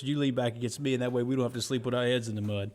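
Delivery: lightly voiced Southern Bubba; Bubba impression. Forrest Gump impression of Bubba line.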